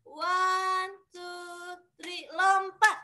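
high, slow coach countdown; gym coach. Acted. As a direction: count them into the jump like a coach. Counting kids into the jump. (hitungan pelatih senam yang lambat dan tinggi)

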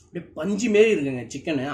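chewing while talking; mouth full. Real, not acted. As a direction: food in mouth. Seen 0: Took a bite at -3.0; lips pressed, chewing motion while talking.

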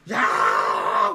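loud, drawn-out angry shout; sudden outburst, imitating a furious customer; retold drunken yell. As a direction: bellow it long, as if confronting someone. Drunk customer flips table, yells.

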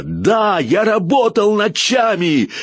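explosive rage; barking in his face. A narrator's reading. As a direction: roar it right into his face. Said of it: "рявкнул ему в лицо".

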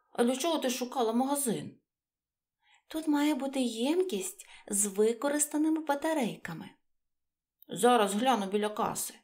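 little creatures chatting eagerly; story character voices. Acted. Mouse and battery talk. (трохи вищий жвавий голосок)

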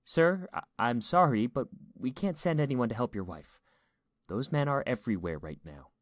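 high, loud start easing down; distressed dispatcher apologizing to a caller; shaky. A narrator's reading. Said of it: "her voice was shaky when she answered".

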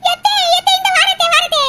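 loud laughing mock reply; daughter-in-law mocking the summons; mocking answer. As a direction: laugh while calling back to her.

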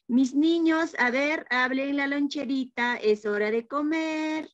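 cheerful teacher call. Acted. Teacher calling kids to lunch.

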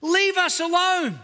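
mock grumbling Israelites; whiny complaining. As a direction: drag out "Leave us alone" like a sulking crowd. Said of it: "listen to the complaints".

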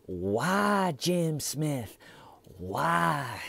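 high, lightly voiced whiny killer; mocking him with a pleading why; mock Russell Williams. Killer whining why to the interrogators, mock plea. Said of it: "and going".

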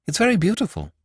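dreamy, high-pitched musing; dreaming. A narrator's reading. Priest admiring the dagger, dreaming voice. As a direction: muse as if half in a dream. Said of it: "said the priest in a low, dreaming voice".

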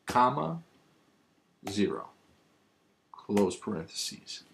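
reading a formula symbol by symbol; dictating. Shown as a demonstration. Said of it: "This is what it should look like".

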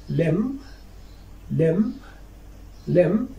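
"limb" ending on m, rising; teacher's careful "limb", closed on the m; silent final letter. Shown as a demonstration. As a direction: model "limb" as "lim". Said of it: "you cannot pronounce it after M".

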